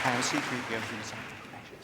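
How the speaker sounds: a plain first take of the droid line; C3PO line read. Acted. Host reading the famous C3PO line plainly, ahead of a whispered take. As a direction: say it straight as C3PO. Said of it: "Go on then".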